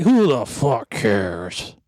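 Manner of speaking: slow, dragged dismissive reply; dismissive retort. Retold or imitated. Hard Hat brushing off his wife, slow dismissive. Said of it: "And I'm like".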